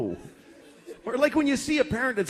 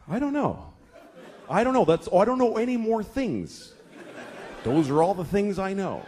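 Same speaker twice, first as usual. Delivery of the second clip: flustered dad. Retold or imitated. Dad cornered by endless whys.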